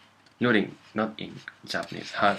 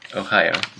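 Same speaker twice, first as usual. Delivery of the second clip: put-on English-accented misreading; 5 dB louder than usual. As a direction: punch ohayo out like English Ohio. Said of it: "possibly with accent".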